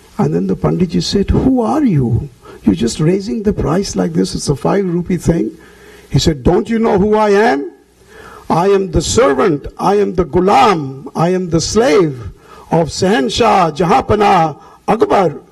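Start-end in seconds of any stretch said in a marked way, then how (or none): 6.5-15.4 grand, self-assured, proud and confident bragging. Narrator retells a man answering Panditji's challenge, retelling proud, confident speech. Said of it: "with great pride and confidence, he was speaking like this".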